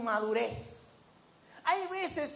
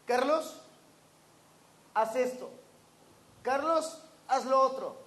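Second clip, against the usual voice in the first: parents calling out. Retold or imitated. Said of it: "mis papás decían".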